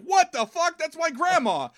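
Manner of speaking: very high mock shock; shocked outcry. Crusher seeing her grandma possessed, comically shocked.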